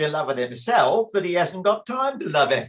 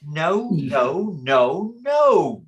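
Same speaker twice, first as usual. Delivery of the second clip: loud protest; 4 dB louder, much slower than usual. Acted. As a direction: blurt the last no. Emphatic denial.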